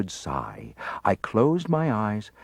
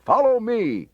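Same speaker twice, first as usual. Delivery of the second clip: order; 13 semitones higher, 5 dB louder than usual. A narrator's reading. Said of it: "he ordered".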